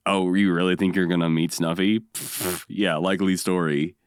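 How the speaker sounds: lightly imitated sceptical scoff; mock disbelief with a dismissive puff. Host retells Oscar mocking Gordon about Snuffy, mildly mocking. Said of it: "he's mocking Gordon".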